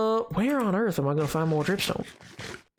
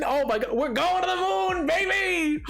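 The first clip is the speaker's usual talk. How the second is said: excited; 12 semitones higher than usual. Real, not acted. Excited about moon mission.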